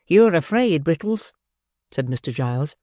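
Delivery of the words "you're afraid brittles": taunting. Acted. Giles taunting Brittles.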